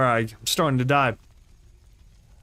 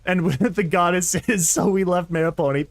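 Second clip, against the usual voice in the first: orc voice. Acted. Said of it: "It's so fun to do".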